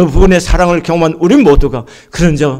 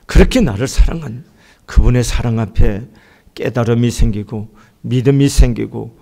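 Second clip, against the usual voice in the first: closing prayer; 6 semitones lower than usual. Acted. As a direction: lead the church gently into prayer. (낮고 조용한 기도 목소리)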